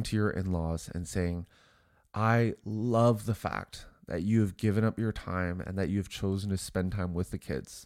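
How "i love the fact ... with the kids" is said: sincere. Acted. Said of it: "hopefully you heard the sincerity in my voice".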